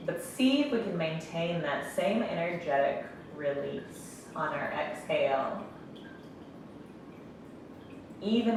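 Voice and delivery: calm meditation guide, long pauses between phrases; guided meditation. Real, not acted. Yoga instructor guiding breath and closed eyes, calm meditation voice. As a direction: ease them gently into stillness, leaving space to breathe.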